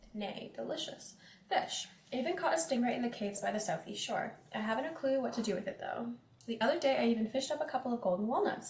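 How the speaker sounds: lightly dramatic diary read; journal reading. Acted. Reads in-game journal entry.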